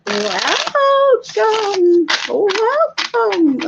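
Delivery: high, eerie fortune teller welcome; spooky mystic greeting. Acted. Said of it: "I really hope I sound like a super creepy fortune teller lady".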